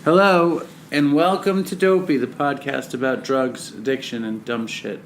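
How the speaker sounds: podcast intro. Acted. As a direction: open the show like a host.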